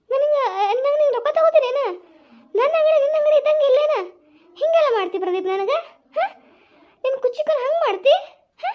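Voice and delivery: high, laughing mock offence; laughing protest. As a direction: laugh off the money. Refusing friend's money, laughing. (ನಗುತ್ತಾ ಪ್ರತಿಭಟನೆ)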